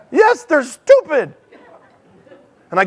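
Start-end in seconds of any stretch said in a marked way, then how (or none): 0.1-1.4 sarcastic. Retold or imitated. His sarcastic inner reaction.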